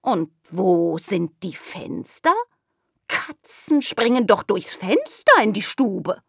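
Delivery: a curious kitten insisting. Acted. Kitten asks about windows.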